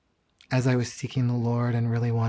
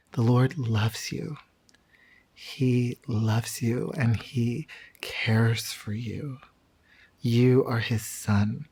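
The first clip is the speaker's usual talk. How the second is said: tender prayer; slower than usual. Retold or imitated. Man praying over him.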